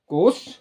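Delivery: कोश said slowly with a hushing sh at the end; first kosh, sh. Shown as a demonstration. Teacher listing look-alike words for pupils, कोश with sh. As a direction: give कोश a clear sh ending. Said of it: "देखिए कितना बड़ा अंतर है".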